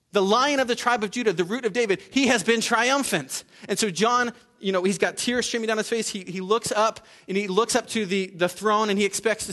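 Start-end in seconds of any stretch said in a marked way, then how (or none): 0.1-3.4 higher, exultant preaching; rising to a preacher's triumph; triumphant proclamation. Retold or imitated. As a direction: proclaim the victory with ringing conviction. Proclaims the Lion's triumph again.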